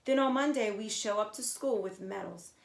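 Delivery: put-on bragging kid, loud and fast at first; boastful. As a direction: show off to the new kid. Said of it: "boasted Kat".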